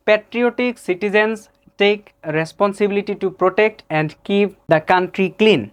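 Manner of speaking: put-on slow, word-by-word Bengali-accented English; local friend's accent. Teacher mimics his friend reading English, Bengali accent. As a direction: read it in a plain Bangladeshi accent. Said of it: "লেখক আলী ভার্সন, যেটা আমার বন্ধু যেভাবে বলে".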